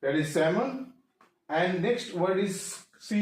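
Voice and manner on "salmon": salmon said as "samon", no l; silent L. Shown as a demonstration. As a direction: drop the L in salmon. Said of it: "that is L silent है". (salmon में L silent)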